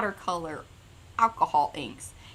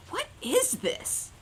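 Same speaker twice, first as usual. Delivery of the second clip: imitating partner; 13 semitones higher, 3 dB quieter, much slower than usual. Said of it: "She goes".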